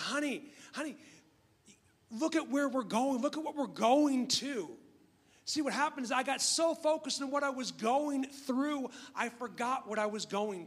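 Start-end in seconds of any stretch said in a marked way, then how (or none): 0.0-4.7 higher, lightly voiced wife soothing her husband; wife calming him. Wife snapping husband back to reality, lightly voiced and soothing. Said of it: "She said".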